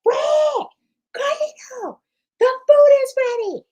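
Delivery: high, loud call through the house; screaming out. Pretend. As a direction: yell the family to dinner. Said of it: "I'm just screaming out".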